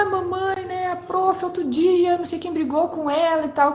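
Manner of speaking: high-pitched imitation of a small child; little daughter. Imitating youngest daughter telling mum school troubles, childlike. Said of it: "daí ela começou a falar".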